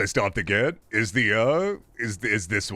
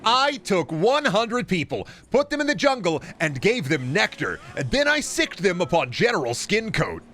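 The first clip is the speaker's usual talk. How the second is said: YouTuber hype voice; 5 semitones higher than usual. Retold or imitated. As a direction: pitch it like a big YouTube stunt. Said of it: "YouTuber or, like, ... Mister Beast".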